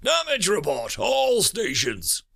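high, drawn-out shout over the comm; screamed order. A narrator's reading. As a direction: scream it out with an edge of fear. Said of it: "I screamed over the comm".

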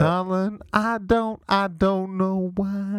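deep soul-singer voice. Pretend. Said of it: "A singer has, uh, ruined his welcome".

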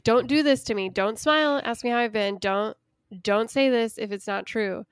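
voicing her brave face to the ex; brave-face plea. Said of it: "trying to put on a brave face".

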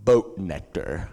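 slow, drawn-out imitation of a random blurt; sudden sleepy blurt. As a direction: mimic a friend blurting it out slowly. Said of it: "hear Joel all of a sudden go".

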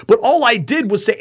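high, pleading disbelief; bewildered victim. Retold or imitated. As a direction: mimic a shocked victim who can't process it. Stunned victim replays the attack.

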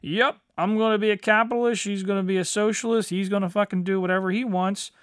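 fast, sarcastic singsong; mocking everyone getting along; mock pretend harmony. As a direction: rattle it off mockingly. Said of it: "pretend like".

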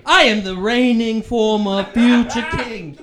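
pompous, lightly British royal claim; hammy British accent for a would-be king; put-on British accent. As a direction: proclaim a title in mock British. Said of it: "how British my accent is".

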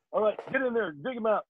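high, soft-ish barked order; drill sergeant. Retold or imitated.

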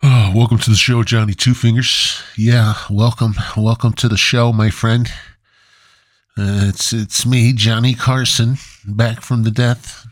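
loose show-host impression, slightly lifted voice; Johnny Carson. Back-from-the-dead host greeting his audience, rough impression. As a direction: welcome the audience like a talk-show host, lightly imitated. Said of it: "I don't even know if this is what he sounded like".

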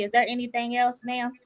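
soft, courteous service phrase; polite demo. Shown as a demonstration. Customer showing the drive-thru worker proper politeness, soft. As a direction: say it gently like a polite cashier. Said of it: "all you have to do is say".

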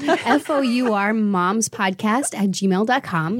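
slow, carefully spelled, a little tipsy; spelling it out while tipsy. Real, not acted. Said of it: "I'm a little tipsy right now".

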